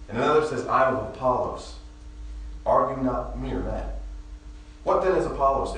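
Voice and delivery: measured, deliberate scripture reading. Acted. Pastor reading Corinthians to the congregation, measured and deliberate. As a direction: read the passage steadily to the church.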